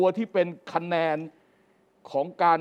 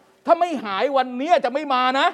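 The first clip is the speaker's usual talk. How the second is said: mock Thammanat quote; 7 semitones higher, 5 dB louder than usual. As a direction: ham it up, stretched and raised. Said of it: "แกก็พูดทำนองว่า".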